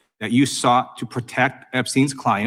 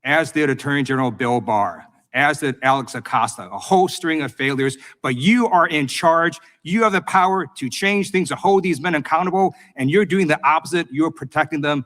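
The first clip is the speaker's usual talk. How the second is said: raised accusatory voice; 4 semitones higher than usual. Real, not acted. Congresswoman confronts attorney general.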